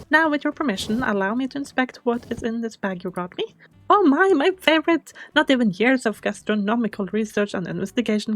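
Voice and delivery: lightly voiced grand old curator; pompous curator. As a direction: play a stately museum owner touched and thrilled.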